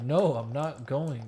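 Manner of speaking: a stubborn, slowed-down no; retold pissed refusal. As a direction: dig in and refuse, annoyed. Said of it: "'Cause I was pissed".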